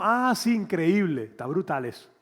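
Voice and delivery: mock enthusiasm. Mocking lazy agreement.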